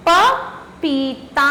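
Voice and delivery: drawn-out, each syllable clear; slow model reading. Shown as a demonstration. Teacher naming the picture slowly for pupils. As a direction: say the word slowly so children can follow. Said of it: "अगला चित्र है".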